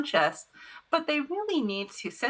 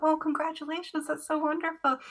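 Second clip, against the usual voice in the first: bright congratulations; 9 semitones higher than usual. Retold or imitated.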